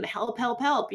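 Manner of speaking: half-hearted imitation of screaming; mock scream. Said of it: "I didn't scream".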